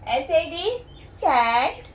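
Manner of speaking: very slow with exaggerated mouth movements; slow it down so they can watch your lips; slow, clear articulation. Shown as a demonstration. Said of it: "lips पे ध्यान दीजिए". (होंठों पर ध्यान दिलाते हुए बहुत धीरे बोलना)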